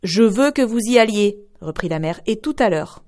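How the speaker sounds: insist, no arguing; insistent mother. Acted.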